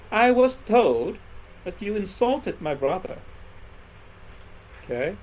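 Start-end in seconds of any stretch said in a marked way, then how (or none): 0.1-3.2 slow example sentence. Shown as a demonstration. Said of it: "when I say".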